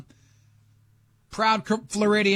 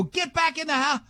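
higher-pitched mock shout; mock yell; 10 semitones higher than usual. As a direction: bark the order in a high put-on yell. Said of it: "I go".

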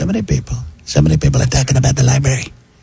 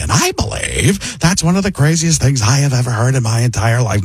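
Paul Giamatti. Retold or imitated. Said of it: "it becomes Paul Giamatti".

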